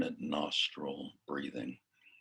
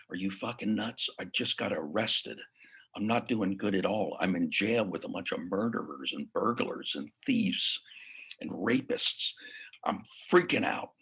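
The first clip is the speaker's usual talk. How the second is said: mildly agitated, raised retelling of panic; retold freak-out; 4 semitones higher than usual. Client calls coach from jail, retold freak-out. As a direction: act out his panic, without the crying. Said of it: "he's freaking out. He's crying".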